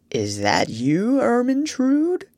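sleepy. A narrator's reading. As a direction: mumble it as if just woken. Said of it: "said sleepily".

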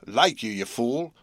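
sharp scolding woman's voice; scolding sister. A narrator's reading. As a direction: snap it at the husband. Sister scolds Joe from window.

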